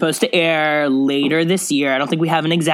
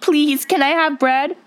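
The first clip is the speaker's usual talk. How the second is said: pleading; 8 semitones higher, slower than usual. Retold or imitated. Jenna begging for bread.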